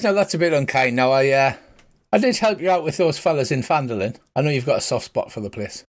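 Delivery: mildly hurt Irish priest brushing off the insult; Irish accent. Acted. Priest answers the insult kindly, light Irish accent. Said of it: "pretend Colin Farrell accent".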